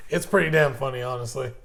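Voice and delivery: ordinary talk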